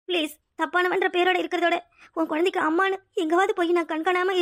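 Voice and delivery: subdued, weepy self-sacrifice; tearful. Acted. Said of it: "ஏய், இப்ப நீ எதுக்கு அழற".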